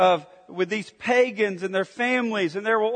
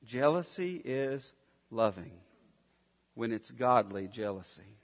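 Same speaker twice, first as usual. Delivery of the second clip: hushed; 8 semitones lower, 10 dB quieter than usual. Real, not acted. Preacher drops voice for key point.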